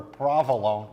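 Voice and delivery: New Jersey Italian-American pronunciation of provolone; Jersey accent. Shown as a demonstration. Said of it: "if you're from Jersey".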